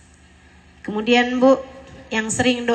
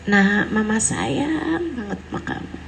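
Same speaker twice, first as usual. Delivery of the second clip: tender mother voice. Pretend. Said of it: "duduk sama anak secara serius".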